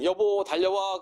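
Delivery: 높고 크게 부르기; calling out. Retold or imitated. 우울한 배우자를 부름. (우울해서 남편을 부르는 높고 큰 외침)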